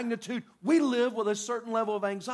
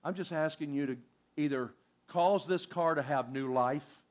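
quiet earnest prayer; 6 semitones lower, 3 dB quieter than usual. Retold or imitated. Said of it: "and you go".

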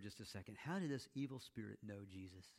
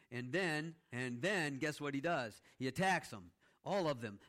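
louder build-up; 5 dB louder than usual. Real, not acted. Building to the demon's attack.

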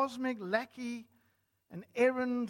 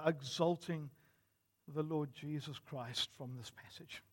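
hushed, lower public prayer; 4 semitones lower, 5 dB quieter, faster than usual. Real, not acted. Preacher asks God for clarity before preaching, prayerful. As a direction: pray softly and reverently over the congregation.

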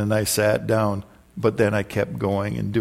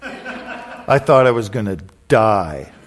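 laughing; 3 dB louder, slower than usual. Real, not acted. Laughing at embarrassing memory.

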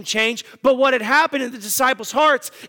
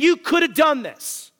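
higher, pointed rebuke; exasperated Jesus; 5 semitones higher than usual. Retold or imitated. Jesus telling disciples they could have done it, exasperated. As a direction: press the blame on YOU. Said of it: "Jesus saying".

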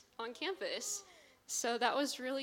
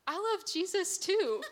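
excited, laughing quote; 12 semitones higher, 10 dB louder than usual. Retold or imitated. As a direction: gush through laughter.

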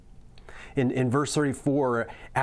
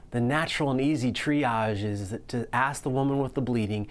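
usual speaking voice

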